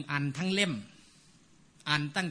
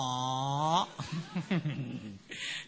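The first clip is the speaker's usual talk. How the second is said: short laugh; 5 semitones lower, 4 dB quieter than usual. Real, not acted. Laughs at own imitation.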